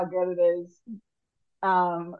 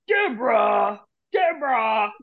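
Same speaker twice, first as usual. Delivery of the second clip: Ray Romano calling. Retold or imitated. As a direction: shout her name like Ray. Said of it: "Everybody loves Raymond".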